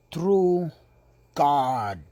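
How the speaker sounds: whisper. Real, not acted. Revelation whispered at sermon's peak.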